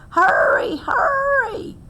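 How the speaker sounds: high urgent shout; urgent call. Acted. Grandmother urging Squirrel into the burrow: high urgent shout. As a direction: call out fast to hurry him. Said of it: "she called".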